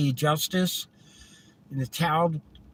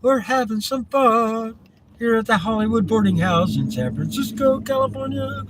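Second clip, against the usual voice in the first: quoting Steve Martin; 4 semitones higher than usual. Retold or imitated. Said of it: "That's from Steve Martin".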